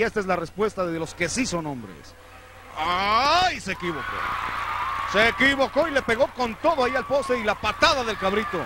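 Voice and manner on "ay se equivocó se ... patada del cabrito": sudden raised exclamation; excited shout. Real, not acted. Exclaims at the mistake. (grito de sorpresa del comentarista)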